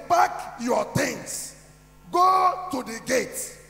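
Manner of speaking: slow mocking lecturer. Retold lecturer humiliating him.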